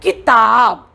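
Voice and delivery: quick first syllable in किताब, lean on the second; short-i demonstration. Shown as a demonstration. Teacher reveals the new word, किताब with a short 'ki'. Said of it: "तो ये बन जाएगी".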